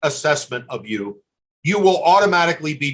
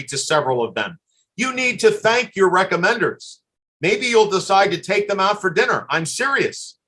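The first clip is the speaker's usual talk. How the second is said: usual speaking voice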